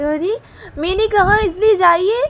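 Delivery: loud, high shout to get out; angry order. Acted. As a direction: order him out of the room. Daughter orders father out. (गुस्से में ज़ोर से चिल्लाकर भगाना)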